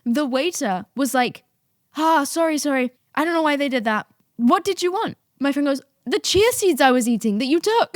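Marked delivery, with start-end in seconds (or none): 2.0-5.2 apologetic waiter. Retold or imitated. 6.0-8.0 indignant friend. Retold or imitated. Acts out friend's indignant reply.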